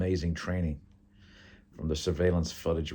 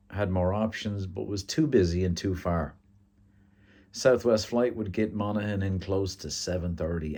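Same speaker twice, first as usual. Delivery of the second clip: measured storybook-style read; story narration; 3 dB louder than usual. A narrator's reading. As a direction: narrate the scene to listeners. Reads a story aloud.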